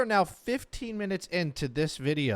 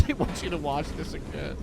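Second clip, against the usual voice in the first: laughing; 2 semitones higher than usual. Retold or imitated. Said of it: "mocking repeat".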